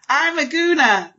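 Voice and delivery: imitating a singer. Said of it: "she actually said".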